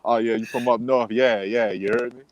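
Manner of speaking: light imitation of New Orleans talk; easygoing mock New Orleans accent. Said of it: "that's how they talk".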